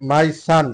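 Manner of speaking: my son said slowly, with son sounding like sun; careful model pronunciation. Shown as a demonstration. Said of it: "এটার মতোই উচ্চারণ হবে". (ধীরে, সূর্য (sun)-এর মতো করে my son)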